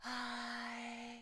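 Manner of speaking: breathy, flat "hi". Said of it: "you feel the warm air?".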